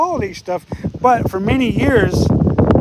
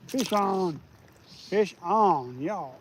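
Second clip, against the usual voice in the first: hushed and quiet; fishing whisper; 2 semitones lower, 7 dB quieter, much slower than usual. Real, not acted. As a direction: keep it down, fish on the line. Hushed while fighting a fish.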